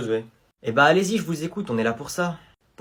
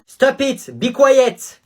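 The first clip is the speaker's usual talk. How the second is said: higher, louder stern teacher; English teacher telling off a pupil, higher and louder; teacher's shrill scold; 9 semitones higher, 7 dB louder, much slower than usual. Acted. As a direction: snap at a noisy pupil. Teacher scolding kid, high.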